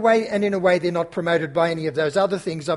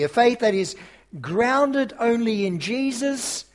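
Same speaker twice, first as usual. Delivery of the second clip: rising, emphatic pulpit delivery with pauses; earnest preacher building to key words; sermon preaching. Acted. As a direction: preach it out to the congregation.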